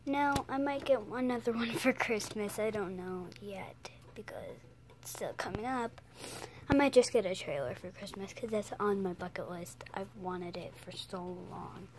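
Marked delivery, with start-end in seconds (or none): 2.6-6.0 soft secretive whisper, dropped right down; whispered aside. Real, not acted. Telling viewers about a possible Christmas gift, whispered. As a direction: whisper it like a secret the family shouldn't hear.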